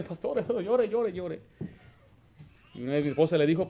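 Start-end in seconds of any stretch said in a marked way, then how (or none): 0.0-1.4 mocking weeping plea. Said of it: "Otra vez viene".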